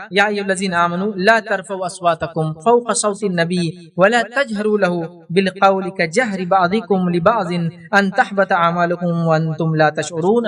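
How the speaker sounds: slow, measured chanted recitation; Quranic recitation. Acted. Preacher reciting the verse to the gathering, slow chant. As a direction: intone the verse slowly and reverently.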